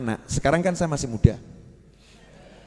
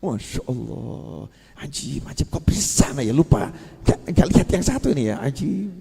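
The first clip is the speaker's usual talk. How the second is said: hushed amazement; 3 semitones lower, 3 dB quieter than usual. Retold or imitated. Teacher marvelling at the book.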